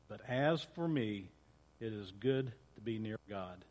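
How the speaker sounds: measured, solemn reading of a psalm; scripture reading. Acted. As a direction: read the psalm to the congregation with gravity. Pastor continues reading Psalm.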